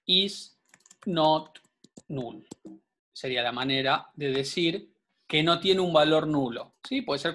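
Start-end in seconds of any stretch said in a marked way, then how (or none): 0.0-2.5 Is, not, null, with a pause after each word; word-by-word dictation. Real, not acted. Teacher spells out the SQL condition for students, word by word.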